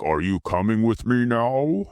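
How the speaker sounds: measured, put-on voice of an imposing man; lightly voiced man, rising into the question; deep-voiced man. Towering man asks the woman, lightly imitated deep voice. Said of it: "a low, deep voice".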